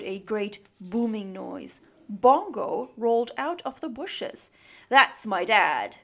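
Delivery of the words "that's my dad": loud, slow, proud boast. A narrator's reading. Bongo pointing out his booming dad, proud. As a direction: announce it with pride. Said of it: "said Bongo proudly".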